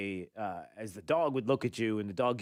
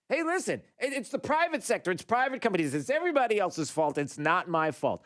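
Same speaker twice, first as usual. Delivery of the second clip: high mock Biden voice, pitched way up; squeaky whiny mock of the president dodging blame; hammed-up high impression blaming everyone; 6 semitones higher than usual. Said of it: "steps up to a microphone and says".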